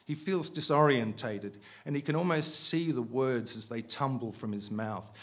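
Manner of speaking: measured, projected reading aloud; story narration. A narrator's reading. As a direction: read the prose out deliberately to a room.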